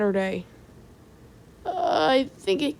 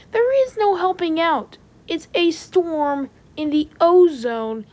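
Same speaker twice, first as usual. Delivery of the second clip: raised, desperate voice, slowing to a drag at the end; guilty shout; 4 semitones higher than usual. Acted. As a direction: yell it out, overwhelmed by guilt. Panicked outburst blaming himself.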